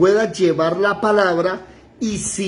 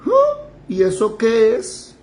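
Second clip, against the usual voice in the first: high-pitched puzzled "huh?", then a slow question; baffled reply; 4 semitones higher, slower than usual. Acted. Believer asked about the Holy Spirit, baffled. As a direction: play someone who has no idea.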